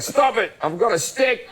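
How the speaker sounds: mock police order. British cop threatening someone with a stick, mock police order. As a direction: issue a feeble order as a joke cop.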